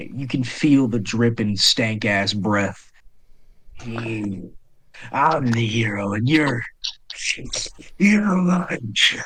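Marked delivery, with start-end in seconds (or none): 3.8-9.2 snarled, growling monster voice. Voicing an attacking foe in a narrated fight, in a snarling creature voice. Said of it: "he snarls".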